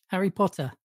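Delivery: British "Harry Potter" with the H pronounced; "Harry Potter" with H, no final R; H sounded. Shown as a demonstration. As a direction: breathe a clear H into "Harry". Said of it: "I'm saying the H".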